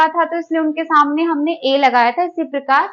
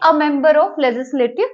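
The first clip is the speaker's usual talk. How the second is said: slow example; much slower than usual. Shown as a demonstration. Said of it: "तो इसको तो हम क्या बोलेंगे?".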